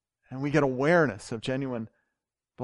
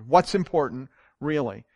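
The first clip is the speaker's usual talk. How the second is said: a louder, pressed retelling of the cry; mock scream, held back; 4 dB louder than usual. Preacher voicing Abraham's pain screaming the question. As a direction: let the question burst out, then drop it. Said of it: "It screamed".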